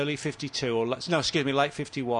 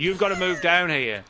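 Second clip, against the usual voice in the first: bossy mad scientist; 4 semitones higher, 5 dB louder than usual. Retold or imitated. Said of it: "Doctor Frankenstein to Wilkinson's Igor".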